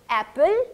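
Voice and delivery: एप्पल loud, open "a", lifted at the end; model pronunciation. Shown as a demonstration. Teacher reviewing A words, emphatic model pronunciation. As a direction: stress the open first vowel of एप्पल. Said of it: "focus on the sound of A".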